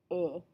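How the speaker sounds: "e" said as a rounded French "uh"; isolated schwa-like French "e"; vowel demo. Shown as a demonstration. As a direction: sound out "e" alone as in French "je". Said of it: "Take careful note of that vowel sound".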